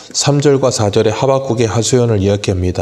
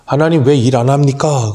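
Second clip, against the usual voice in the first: mock shouting at God; 4 semitones higher than usual. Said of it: "소리치듯이 이야기하는".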